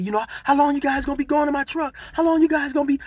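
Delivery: high, mocking white lady voice; imitating a frantic woman. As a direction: squeak it out like a panicked truck owner. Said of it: "but she said".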